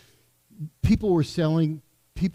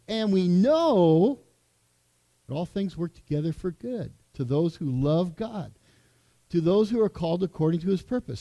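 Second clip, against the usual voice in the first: imitating Ed's reading. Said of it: "he does it this way".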